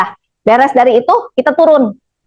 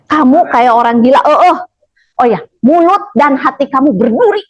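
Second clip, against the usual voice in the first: imitating her tone. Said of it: "Ngomongnya gitu nadanya".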